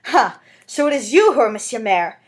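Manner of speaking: loud scornful outburst; wild exclamation. Acted. Fantine confronting the mayor, loud and wild. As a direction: hurl it at him. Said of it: "she exclaimed".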